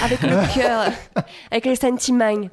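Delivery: playful southern French accent, sentimaŋ with a ringing final ng; a laughing southern French accent on request. Shown as a demonstration. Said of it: "Dis-le avec l'accent du Sud".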